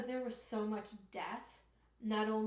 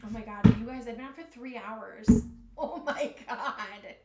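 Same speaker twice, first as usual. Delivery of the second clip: excited; 8 dB louder than usual. Real, not acted. Excited outburst after long stream.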